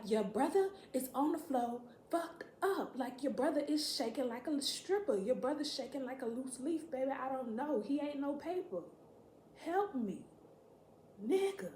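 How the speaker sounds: high, exasperated reenacted plea; hammed-up urgent alarm. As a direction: act out frantic pleading for help. Acts out urgent plea to sister.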